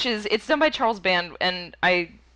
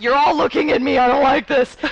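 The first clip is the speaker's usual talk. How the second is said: nervous; 5 semitones higher, 8 dB louder than usual. Retold or imitated. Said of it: "you're like".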